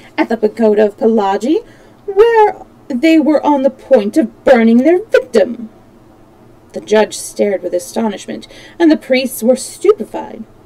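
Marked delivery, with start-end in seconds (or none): 2.1-5.7 eager, heartfelt, warm raised exclamation. Speaking before a judge and priests about the victim: crying out warmly. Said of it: "cried Passepartout warmly".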